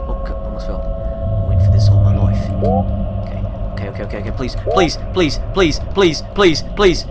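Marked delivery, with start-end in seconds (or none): 4.3-7.0 rising pleading. Real, not acted.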